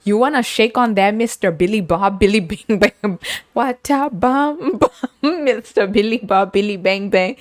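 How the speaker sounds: laughing teasing. Retold or imitated. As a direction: tease him with a giggly deal. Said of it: "And I said".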